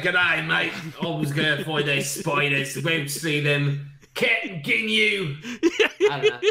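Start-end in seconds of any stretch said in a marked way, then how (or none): 0.0-5.4 mock Australian. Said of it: "he's like".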